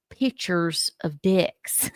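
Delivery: slow Southern "pictures", said as "pitchers"; Southern-accented "pictures". Retold or imitated. Quoting a friend's website story, "pictures" as slow Southern "pitchers". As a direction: drop the k in "pictures", drawing it out slowly. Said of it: "She has this charming Southern accent".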